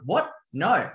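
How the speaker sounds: mum's indignant outburst, imitated; mock outraged reaction; fired up. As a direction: act out her fired-up disbelief in short, swooping bursts. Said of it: "like, fired up".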